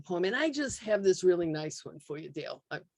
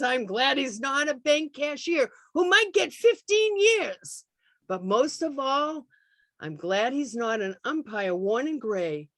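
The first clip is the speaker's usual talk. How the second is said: mother murmuring through tears; 2 semitones higher than usual. Acted. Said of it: "she murmurs through her tears".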